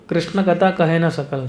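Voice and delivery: slow Bengali verse recitation; scripture recitation. Acted. Repeats verse line slowly.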